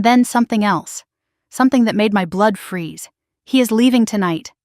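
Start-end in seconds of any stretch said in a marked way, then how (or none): none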